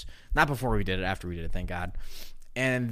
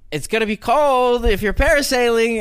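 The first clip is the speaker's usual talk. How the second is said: shop lady; 10 semitones higher, 7 dB louder than usual. Retold or imitated. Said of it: "she's like".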